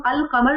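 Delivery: "القمر" with the l clearly sounded; pronounced lam. Shown as a demonstration. Teacher contrasting moon letters for students, "القمر" with sounded lam. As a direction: say "القمر" as al-qamar, keeping the lam. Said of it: "تو اس کا لام پڑھا جا رہا ہوتا ہے".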